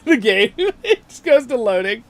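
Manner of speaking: high, loud laughing words; chuckling at the endless loading. Real, not acted. Laughing at glitch.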